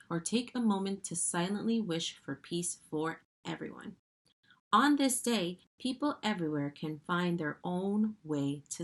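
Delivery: read-aloud voice, phrase openings punched; expressive picture-book narration; reading to children. Acted. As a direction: read the page out to children with clear emphasis. Reads last page of book.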